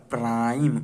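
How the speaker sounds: प्राइम with a drawn-out "aa-ee"; long I sound. Shown as a demonstration. Teacher gives another word of the same type, long I in प्राइम. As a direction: stretch the vowel glide in प्राइम. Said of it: "उसी type से प्राइम".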